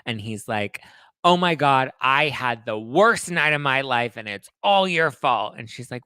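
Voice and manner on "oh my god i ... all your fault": louder, higher, slowed accusing rant; a hammed-up blaming tirade; mock furious rant. Hef phoning Holly to blame her, a mock angry rant. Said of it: "screaming, scathing phone call".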